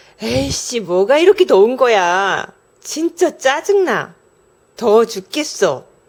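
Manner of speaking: annoyed, irritated, fed-up grumbling with a huff. Giving an example of someone who always complains, speak with irritated complaining. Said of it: "덥다고 짜증을 달고 다니는 사람 / 말에 따라서 억양도 달라지죠?".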